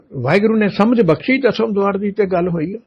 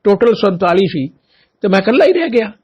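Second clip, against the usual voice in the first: impassioned lament; 5 semitones higher, 3 dB louder than usual. Retold or imitated. Guru's voice, emotional lament.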